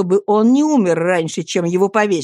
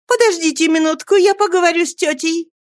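put-on young lady asking about the wounded boy, gently; gentle young lady; 10 semitones higher than usual. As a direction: ask kindly in a girl's voice. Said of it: "как нежен был её голос".

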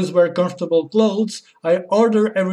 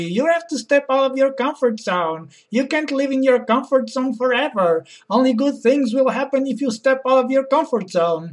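mocking friends; 6 semitones higher than usual. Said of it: "telling me".

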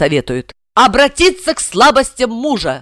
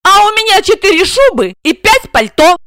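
hands-on-hips retort; 11 semitones higher, 5 dB louder than usual. A narrator's reading. Wife cheekily retorting to the boasting blonde. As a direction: taunt her back.

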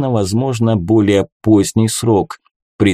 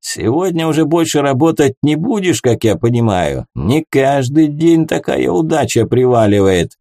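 put-on drunk tavern keeper; 4 semitones higher than usual. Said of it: "тот и сам крепко уже выпил".

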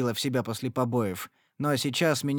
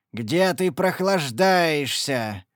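roar; 2 semitones higher, 3 dB louder, much slower than usual. Acted. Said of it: "заревел он".

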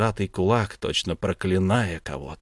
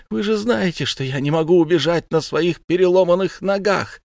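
high, loud grief-stricken wail; wailing scream; 9 semitones higher, 5 dB louder than usual. Acted. Mother wails to judges over her son's body, loud grief. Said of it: "И Соткин закричала".

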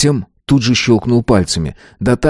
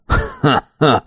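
quiet, light chuckle; soft laugh; 5 semitones higher than usual. A narrator's reading. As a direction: laugh softly under the breath. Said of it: "Слегка негромко".

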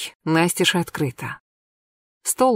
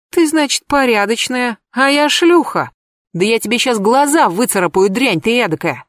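much higher, rising fury; furious threat; 4 semitones higher than usual. Acted. Anka furiously threatens the narrator. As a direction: threaten to claw her eyes out.

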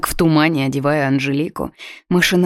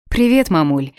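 cheerful; 4 dB louder than usual. Acted. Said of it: "весело ответила я".

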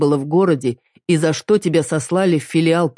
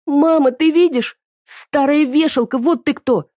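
shouting daughter; 11 semitones higher than usual. Acted. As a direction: hurl the insult at her. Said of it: "снова кричит Мире".

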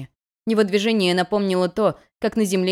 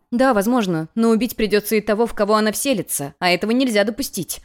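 louder, quick indignant protest; 3 semitones higher, 4 dB louder than usual. Acted. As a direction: push back hard, outraged. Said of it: "возмутилась Ранарика".

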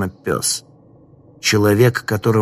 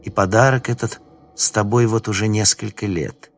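sinister stranger voice; 3 semitones higher than usual. Acted.

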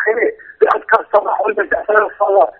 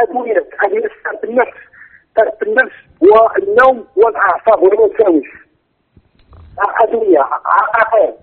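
choppy phone line audio; bad connection. Real, not acted. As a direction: voice cutting out on the call. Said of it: "الصوت يتقطع يا أخي".

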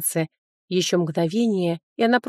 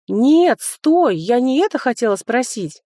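panicked; 4 semitones higher, 4 dB louder than usual. Acted. Panicked attempt to stop book.

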